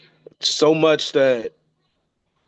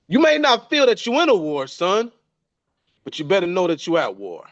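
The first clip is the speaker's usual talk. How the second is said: imitating father's warning; 5 semitones higher than usual. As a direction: lightly voice dad warning his son. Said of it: "He said".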